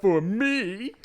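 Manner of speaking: loud, high swoop upward; playful over-the-top exception; hammed-up mother. Mother tells Lucette whom to trust, hammed-up swoop.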